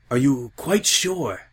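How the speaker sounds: slow, measured doubt; doubting Applejack. A narrator's reading. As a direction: weigh each word sceptically.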